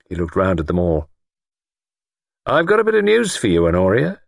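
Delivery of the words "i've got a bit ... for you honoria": high, pointed announcement; announcing lord. A narrator's reading. Lord has news for older woman, pointed announcement. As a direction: break the news with a flourish.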